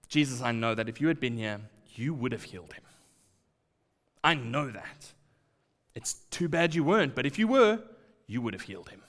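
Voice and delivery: gentle, resigned trust; faithful. Retold or imitated. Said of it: "in a manner of faith".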